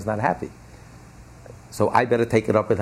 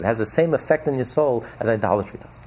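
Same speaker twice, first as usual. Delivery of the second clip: ordinary talk, nothing marked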